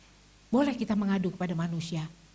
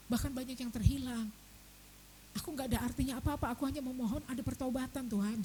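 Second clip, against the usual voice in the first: soft pleading prayer; 6 dB quieter than usual. Retold or imitated. Quoted prayer, much softer.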